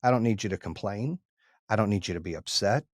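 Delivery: low, soft, measured fatherly talk; gently level with your son, retelling it; retold humbled sincerity. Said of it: "it was a humbling moment for me".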